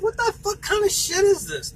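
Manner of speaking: mock-outraged demand; retold outrage. To the man threatening the tow, retold outrage.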